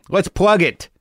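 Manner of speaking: a light mock announcer, plugging himself; lightly hammed-up self-plug; meta announcer voice. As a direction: talk about yourself like a hype man. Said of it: "Why are you saying it like that".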